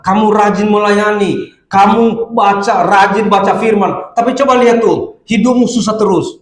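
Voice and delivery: lightly voiced tempter planting doubt; a goading devil's challenge, hint of mockery; taunting devil. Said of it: "Dia akan menimbulkan dalam hati kita". (iblis yang mengejek dan menghasut)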